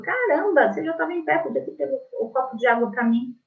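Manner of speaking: high, exasperated outburst; mock irritated complaint; annoyed. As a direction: scold him for not fetching the water. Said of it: "Aí eu fico brava".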